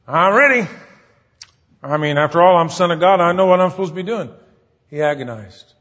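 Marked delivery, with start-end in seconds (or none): 0.0-4.3 mock confidence. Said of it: "he wasn't saying".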